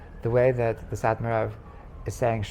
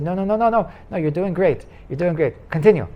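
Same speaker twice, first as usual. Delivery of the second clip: higher and louder, insisting no harm was done; eager reassurance; 6 semitones higher, 5 dB louder than usual. Retold or imitated. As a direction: brush off his apology with eager encouragement. Rebbe reassures the pleading Purim Rav.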